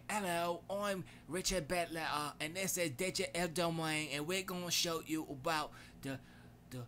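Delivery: a light attempt at a British accent. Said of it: "I can't do British accent".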